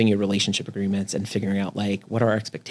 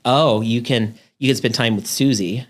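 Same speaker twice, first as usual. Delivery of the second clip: sarcastic. Retold or imitated. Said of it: "Maybe I'm sarcastic".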